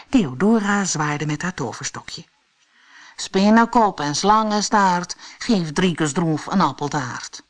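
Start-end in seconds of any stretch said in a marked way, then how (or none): 3.2-7.4 lightly incanted rhyme; measured storybook incantation; called-out magic spell. A narrator's reading. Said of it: "riep Theodora".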